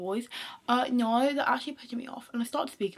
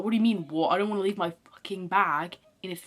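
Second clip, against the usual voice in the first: bolder, a bit louder talk-back; imagined defiant comeback; 3 semitones lower, 4 dB louder than usual. Pretend. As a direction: snap back as if you dared. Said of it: "I didn't say any of that 'cause I was scared".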